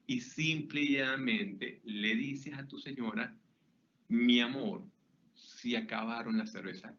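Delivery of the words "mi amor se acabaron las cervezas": tender. Shown as a demonstration. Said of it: "Esas palabras".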